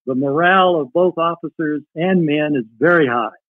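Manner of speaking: reading a wartime letter aloud, lifted. Acted. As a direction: read his letter to the audience like a cherished keepsake.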